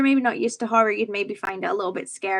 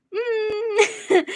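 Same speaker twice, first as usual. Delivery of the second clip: rueful whine; 11 semitones higher than usual. Real, not acted. Rueful noise on seeing own mistake.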